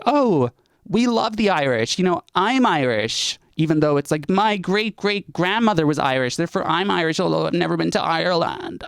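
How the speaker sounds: high, gushing parody of an Irish-American; mock Irish-American enthusiasm. Mocking Americans who claim Irishness.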